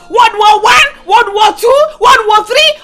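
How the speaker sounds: raging threat. Acted. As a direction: build the list of wars in fury. Mother ranting threats.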